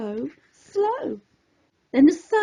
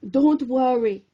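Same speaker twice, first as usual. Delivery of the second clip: soothing; 3 semitones lower than usual. Acted. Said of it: "she soothed".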